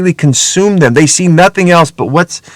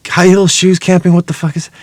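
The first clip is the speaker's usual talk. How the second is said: raised-pitch incredulous question; baffled father; 4 semitones higher than usual. Retold or imitated. Father hearing his daughter's camping wish, mock-baffled.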